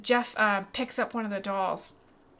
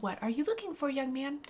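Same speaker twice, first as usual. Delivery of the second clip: put-on higher-pitched shopkeeper addressing a child; Honeywell; 5 semitones higher than usual. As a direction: ask sweetly, pitched up. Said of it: "she's like".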